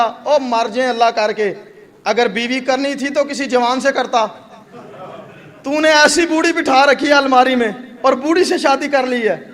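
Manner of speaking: hammed-up old woman's rant, laughing through it; mock scolding. Old woman scolding the man over the mirror, laughing mock rant. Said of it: "لان تان کرنا شروع کر دیا".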